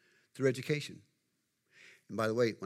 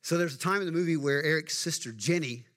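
usual speaking voice

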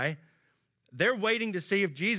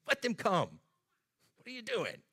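exasperated, higher pitch; annoyed Jesus; 7 semitones higher than usual. Retold or imitated. Jesus rebuking disciples who block children, annoyed. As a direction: scold the disciples, irritated. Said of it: "showed his annoyance ... or tone".

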